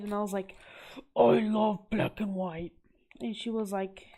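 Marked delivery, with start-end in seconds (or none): 1.2-2.7 slow, put-on gushing voice; retold gushing. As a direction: imitate yourself adoring it, drawn out. Retelling her eager reply in trade.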